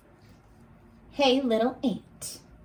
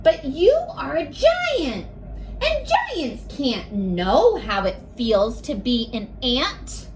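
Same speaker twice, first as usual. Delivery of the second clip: lightly voiced ant. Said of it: "Now it's the ant talking".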